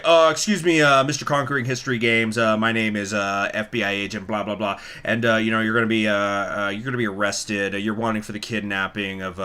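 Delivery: mock FBI agent, halting with uh and um; a hint of a fumbling scam caller; imitating the scammer. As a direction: lightly play the fake agent, stumbling along. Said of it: "it's like".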